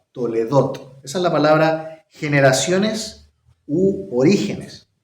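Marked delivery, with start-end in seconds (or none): 0.2-1.0 Toledot with the weight on the last syllable, -dot. Explaining a hebrew word: stress on last syllable of toledot. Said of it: "el acento en la última sílaba".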